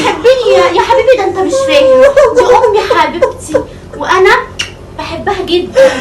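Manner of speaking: laughing through fake tears. Wife fake-sobbing, laughing.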